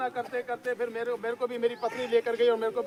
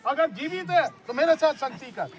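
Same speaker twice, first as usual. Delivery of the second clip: calling out; 3 semitones higher, 4 dB louder than usual. Retold or imitated. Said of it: "पुकारा".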